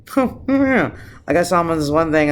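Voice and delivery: high dopey mock Trump voice, quick on the second line. Mocking Trump's answer to reporters, high and dopey. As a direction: make him sound clueless and vague. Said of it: "And he's just like".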